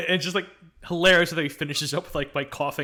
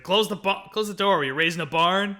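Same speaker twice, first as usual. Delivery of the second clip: raised, lightly imitated scolding; mock scolding call; 2 semitones higher, 4 dB louder than usual. Hero scolding Sheila for leaving the door open, mock scolding. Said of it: "then he just mutters under his breath".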